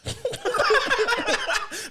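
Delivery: squeaky laugh; high laugh. Real, not acted. Laughing at the show.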